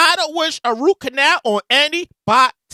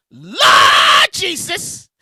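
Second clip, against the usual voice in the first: drawn-out exclamation; 2 semitones higher, much slower than usual. Real, not acted. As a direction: wail it out, amazed. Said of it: "exclaiming in disbelief".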